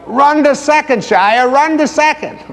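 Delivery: high, excited cheering call; crowd yelling. Retold or imitated. Crowd cheering Shia toward first base, high excited yell. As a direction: urge him on to first base. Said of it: "Everyone yelled".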